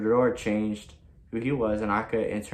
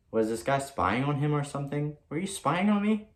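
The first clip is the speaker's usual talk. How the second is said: startled accusation; 5 semitones higher than usual. Retold or imitated. Accusing him of spying.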